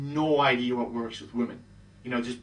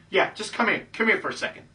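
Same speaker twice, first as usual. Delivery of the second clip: coaxing insistence, pitched higher; insisting; 6 semitones higher, faster than usual. Retold or imitated. Man urging a hesitant woman to come over, insisting. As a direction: keep insisting, lightly acted. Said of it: "And he keeps insisting".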